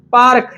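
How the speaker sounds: पार्क with the R sounded; R pronounced. Shown as a demonstration. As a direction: say पार्क, letting the R be heard before the K. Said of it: "इसे पार्क नहीं पढ़ा जाता". (पार्क में र का उच्चारण)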